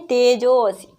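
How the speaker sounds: तेजोसी with a long, held ओ; long-vowel demonstration. Shown as a demonstration. Teacher answering "how do we say it", तेजोसी with a prolonged जो. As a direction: stretch the जो of तेजोसी. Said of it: "क्या बोलते हैं?".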